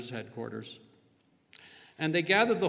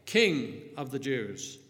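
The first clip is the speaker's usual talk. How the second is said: slow, drawn-out mock salute, louder on Hail; 4 dB louder, much slower than usual. A narrator's reading. Soldiers kneeling to mock Jesus, loud slow sneer. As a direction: sneer it out as a fake homage. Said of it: "they mocked him".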